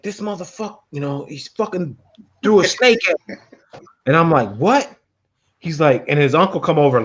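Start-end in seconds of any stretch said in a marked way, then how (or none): 0.0-3.4 high, raised imitation of an upset friend; mock angry buddy. Retelling how the buddy complained about the snake. 4.6-4.9 high, startled what; surprised. Retold or imitated. Asking the buddy what happened, surprised.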